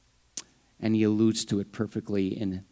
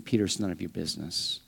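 firm but respectful; 4 semitones lower, 6 dB quieter, faster than usual. Retold or imitated. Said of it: "Jesus essentially saying".

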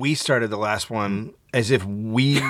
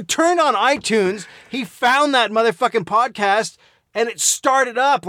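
laughing; 8 semitones higher, much slower than usual. Real, not acted. Still laughing telling story.

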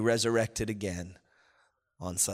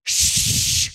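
long, hard "shhh"; loud shush; 7 dB louder than usual. Acted. World, flesh and devil silencing believers, loud shush. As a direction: shush forcefully to silence a cry. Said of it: "the world would say".

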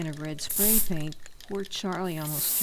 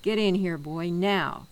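louder, firm command; stern order; 6 dB louder than usual. Acted. Mister Mason ordering Charlie into the house, stern. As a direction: order him inside, no arguing.

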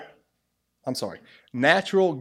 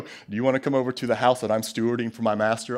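hurried, lower mock-pious invitation; stilted churchy invitation, lower and quick; weird Christian talk; 4 semitones lower, faster than usual. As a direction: rattle it off like an over-pious churchgoer. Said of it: "that's weird Christian talk".

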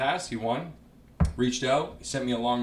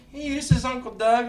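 much higher voice, a quick take on the premier; Doug Ford impression; 12 semitones higher than usual. Comedian doing Doug Ford on a phone call. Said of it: "he does a Doug Ford impression".

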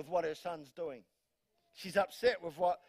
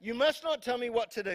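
laughing mock son; 4 semitones higher, 3 dB louder than usual. Repeat with laugh.

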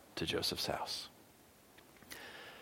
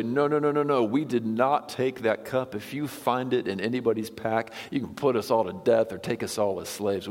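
emphatic retold denial; urgent protest; 2 semitones higher than usual. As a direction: voice the accused brothers insisting on innocence. Brothers protest their innocence.

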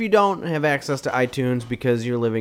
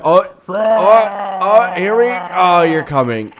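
higher, louder excited bear; helium bear voice; 5 semitones higher, 4 dB louder, slower than usual. Acted. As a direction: squeal it excitedly. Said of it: "bear on helium".

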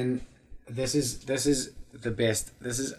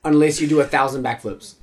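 loud, slow, self-important declaration; bossy kid; 7 dB louder than usual. Acted. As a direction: lay down the rules loudly. Bossy kid invents rules.

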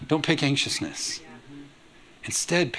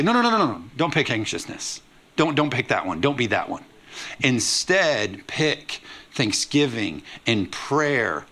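gentle pleading. Retold or imitated. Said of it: "It says it like this way".

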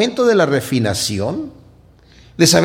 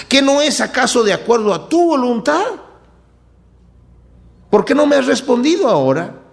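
higher, urgent pleading to God; pleading complaint; 7 semitones higher than usual. Acted. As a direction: cry out like someone tired of waiting. Acting a desperate believer's complaint.

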